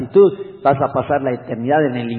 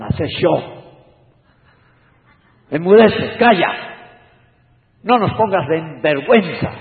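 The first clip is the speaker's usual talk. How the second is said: Guatemalan hush; 4 semitones higher, 5 dB louder than usual. Retold or imitated. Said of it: "A lo muy chapín, decían".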